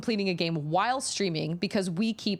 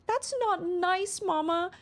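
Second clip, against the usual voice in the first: put-on much higher, very slow pouty little girl; high, slow little-girl reproach; whiny toddler; 13 semitones higher, slower than usual. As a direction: drag it out like a sulking toddler. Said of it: "and she was like".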